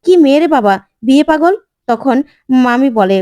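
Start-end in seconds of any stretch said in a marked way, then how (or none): 0.1-1.5 mild mock anger, scolding; a retold aunt's angry jab, lightly raised. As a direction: scoff at her like an irritated aunt. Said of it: "কাকিমণি রেগে যায় আর বলে".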